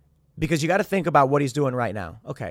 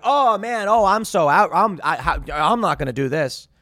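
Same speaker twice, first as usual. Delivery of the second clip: mock Ye bailing; 2 semitones higher, 4 dB louder than usual. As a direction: play the guest suddenly backing out. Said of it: "all of a sudden he's like".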